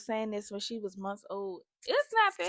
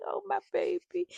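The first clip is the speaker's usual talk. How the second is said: high-pitched doting coo; melting, high motherly voice; doting mom; 9 semitones higher than usual. Retold or imitated. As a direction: coo over the baby. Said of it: "And I just be like".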